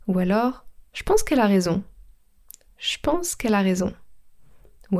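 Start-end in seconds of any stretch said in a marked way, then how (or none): 0.9-1.8 „je pense” said as „shpense”; potoczne ściągnięcie. Shown as a demonstration. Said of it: "son je qui devient che". 2.8-3.9 „je pense” said as „shpense”; potoczne ściągnięcie. Shown as a demonstration. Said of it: "son je qui devient che".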